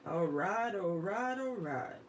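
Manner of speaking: drawn-out, rolling catchphrase impression; Matthew McConaughey. Fan quoting the actor she loves listening to, drawled impression. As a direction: stretch each word in a mock Southern drawl. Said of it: "Matthew McConaughey".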